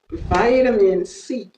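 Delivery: American "vitamin", long first vowel as in "vie"; American accent. Shown as a demonstration. Teacher showing how Americans say it, American accent. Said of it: "Ça, c'est les Américains qui disent ça".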